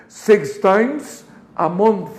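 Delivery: "month" stressed at a slow pace; emphasis on month. Shown as a demonstration. Teacher stresses the frequency so students copy it. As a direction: lean on "month" to mark the frequency. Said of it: "la tenemos que enfatizar al pronunciarlo".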